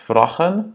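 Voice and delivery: VRAGEN with a short, rounded O-like A; wrong short vowel. Shown as a demonstration. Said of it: "Ce n'est pas vragen".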